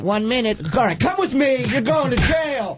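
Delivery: barking police officer orders; stern cop voice. Pretend. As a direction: play a gruff arresting cop. Radio host acts out arresting cop.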